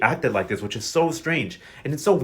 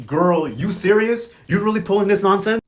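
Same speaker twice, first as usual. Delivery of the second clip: incredulous disbelief; 4 semitones higher, 4 dB louder than usual. Retold or imitated. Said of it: "Amadeo was like".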